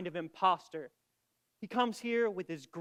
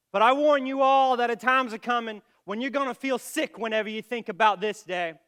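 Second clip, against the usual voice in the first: raised-voice parting warning; stern warning; 2 semitones higher, 5 dB louder than usual. Acted. Doctor washes his hands of the matter, sternly warning everyone. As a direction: warn them all forcefully of regret.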